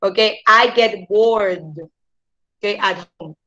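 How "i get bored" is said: slow "I get bored", bored as one syllable; silent E in bored. Shown as a demonstration. Teacher modelling the sentence, bored without E. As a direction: stretch it slowly, R straight to D in bored. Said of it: "como si esa E no estuviera".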